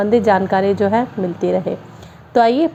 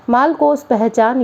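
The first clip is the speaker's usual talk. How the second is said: slow, measured closing verse line; doha recitation. Shown as a demonstration. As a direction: recite the last line of the couplet slowly. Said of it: "सबसे पहले हम दोहा पढ़ेंगे".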